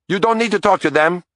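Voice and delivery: a wife barking at the detective to leave her staff alone; rabid barking. A narrator's reading. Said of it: "barking at me even more rabidly".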